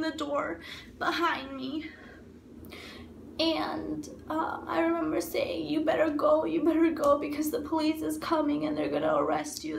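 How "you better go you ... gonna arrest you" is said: louder, pressing warning; retold urgent warning. Warning boyfriend that police are coming, retold urgent warning. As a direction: urge him out, retold with force.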